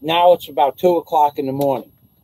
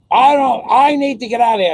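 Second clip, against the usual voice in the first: desperate friend pleading; 7 semitones higher, 3 dB louder than usual. Retold or imitated. Friend calling from jail at 2am.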